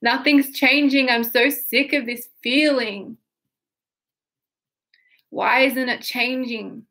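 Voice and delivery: mild mock whine of a little kid; a hint of a child's tantrum; kid's tantrum. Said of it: "Say it like a little kid having a tantrum".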